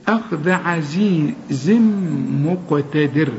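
أخذ slow, dhal with tongue between teeth; slow tajweed reading. Shown as a demonstration. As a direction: recite أخذ عزيز slowly, clear dhal. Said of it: "طلع لسانك في الذال".

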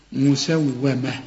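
slow مسومة ending in a plain -ah; stop form. Shown as a demonstration. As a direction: recite مسومة slowly with H. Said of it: "recitation demo".

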